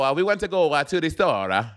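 light mock Italian accent on English. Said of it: "English with an Italian accent".

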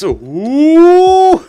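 high, loud startled ooh; sharp startled cry; surprised yelp. Real, not acted. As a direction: yelp as it catches you off guard. Sudden game event.

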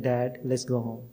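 soft, tender plea to his father; a calmed-down son softly guiding his dad home; gentle and calm. Retold or imitated. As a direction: quietly soothe a confused old man. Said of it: "I totally calmed down".

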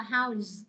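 "house" ending in a z sound; voiced s ending. Shown as a demonstration. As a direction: voice the final s of "house" as z. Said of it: "nó sẽ đọc là âm giờ". (đọc "house" với âm cuối "giờ" (z))

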